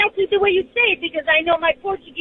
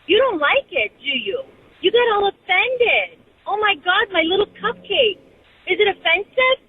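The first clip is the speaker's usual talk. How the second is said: higher-pitched teasing taunt; mock sympathy; 4 semitones higher than usual. Caller taunts her offended name-callers, mockingly sympathetic. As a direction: tease them with exaggerated concern.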